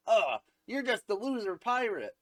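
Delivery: high put-on disgusted voice; hammed-up contempt, pitched high; mock scornful put-down. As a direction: sneer it in a high cartoon voice. Voices Nami scorning the hero.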